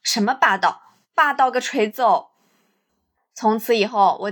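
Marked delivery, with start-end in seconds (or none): 0.0-2.3 scornful Sichuan-dialect retort. Retold or imitated. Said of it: "那时候我就想说".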